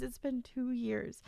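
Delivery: usual speaking voice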